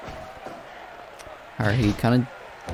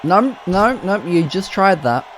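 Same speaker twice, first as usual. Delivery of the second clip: exasperated outcry; 9 semitones higher than usual. Real, not acted. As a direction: cry out in disbelief at the repeat. Wrestler repeats a failed move.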